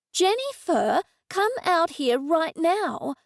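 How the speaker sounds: high, slow calling out; exclaiming. Acted. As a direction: call her out sharply. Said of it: "I exclaimed".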